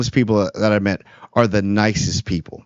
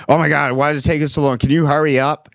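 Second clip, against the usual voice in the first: impatient customer; 2 semitones higher than usual. Retold or imitated. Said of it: "or something like".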